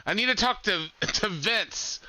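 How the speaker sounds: a hint of a cocky wrestler on the phone; Konnan. Wrestler phones Bruce Pritchard asking for Vince, lightly imitated. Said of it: "so he calls up Bruce Pritchard, goes".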